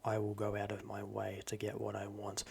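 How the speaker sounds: lightly voiced calm, menacing villain; quiet aggression without yelling, a bit creepy; calm sinister villain. Shown as a demonstration. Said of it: "sinister, as in talking like this".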